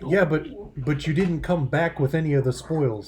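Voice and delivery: sarcastic retort. Acted.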